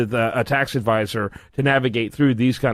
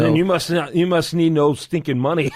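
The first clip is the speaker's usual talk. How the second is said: laughing jab; 2 semitones higher than usual. Real, not acted. Host jokes back.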